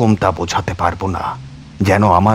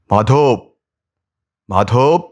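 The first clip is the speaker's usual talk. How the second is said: higher, louder call across the yard; 4 semitones higher, 3 dB louder, slower than usual. Acted. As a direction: call his name into the silent house. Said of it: "উঠোনে দাঁড়িয়ে ডাক দিলাম".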